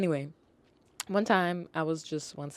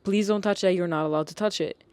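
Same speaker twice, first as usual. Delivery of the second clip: retold worried call-out, a bit raised; concerned yell; 2 semitones higher, 4 dB louder than usual. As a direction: call out a mild, concerned warning. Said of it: "my concerned ass yells out".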